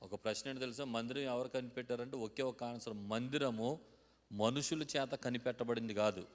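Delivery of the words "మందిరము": ordinary talk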